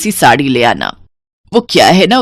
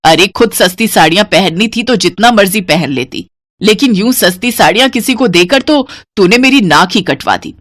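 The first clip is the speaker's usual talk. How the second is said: shouting. Acted. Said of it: "जोर से चिल्लाते हुए कहती है".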